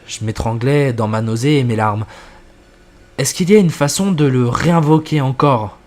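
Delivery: narration posée, plus grave dans les apartés du narrateur; lecture de récit. A narrator's reading. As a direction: lire l'histoire en jouant sobrement les dialogues. Lit une histoire à voix haute. (narration de fiction à voix haute)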